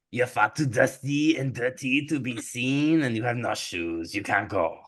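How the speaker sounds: put-on French accent; haughty refusal in a French accent; French stepmother. Stepmother refusing Cinderella the festival, French accent. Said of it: "I can't do German well, so she's French".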